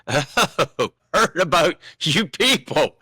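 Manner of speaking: mock-wary tease; wry aside. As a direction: say it like you've heard the rumours. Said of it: "And I was like".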